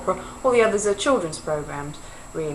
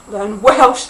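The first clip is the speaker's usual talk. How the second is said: laughing correction; 9 dB louder than usual. Real, not acted. Vlogger laughing as she corrects her slip. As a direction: giggle before Welsh, questioning rise. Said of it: "Learn Wales!".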